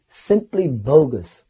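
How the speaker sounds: slow, drawn-out dismissal; imitating Prabhupada. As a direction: imitate a guru's measured rejection. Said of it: "he said it in such a wonderful way".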